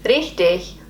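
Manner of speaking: careful learner's "Richtig"; attempted German pronunciation. Shown as a demonstration. Learner hoping it sounds okay, careful attempt. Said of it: "I think that sounded okay".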